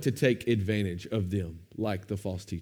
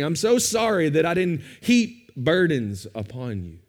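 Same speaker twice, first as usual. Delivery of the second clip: sarcastic apology. Retold or imitated. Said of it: "That's what he's saying".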